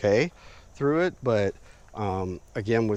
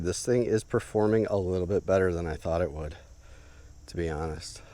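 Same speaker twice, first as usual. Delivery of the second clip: breathless after chopping; winded, catching breath between words. Real, not acted. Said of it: "now that I'm all out of breath".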